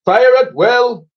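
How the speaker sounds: high, slow, loud command; captain ordering the gunners; firing order. Acted. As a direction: bark the order to fire.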